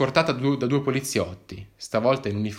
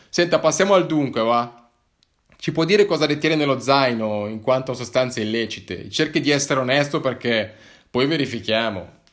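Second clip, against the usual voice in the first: louder, officious policeman; stern interrogating cop; 2 semitones higher, 5 dB louder than usual. Acted. Policeman questions the hiker about drugs, stern. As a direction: press him like a stern officer.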